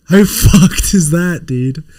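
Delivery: slow, laughing; drawn-out amused disbelief. Real, not acted. Streamer showing an ugly toy, laughing slowly.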